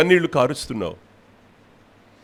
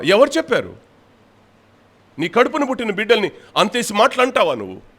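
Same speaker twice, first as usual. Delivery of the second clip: higher, forceful rebuking questions; fiery preaching; 7 semitones higher, 3 dB louder than usual. Real, not acted. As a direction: hammer each question at the listener. (ఆవేశంగా గద్దించే ప్రసంగం)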